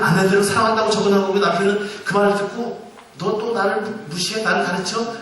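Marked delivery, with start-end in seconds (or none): 3.2-5.2 angry husband. Retold or imitated. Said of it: "그게 화가 난 거예요".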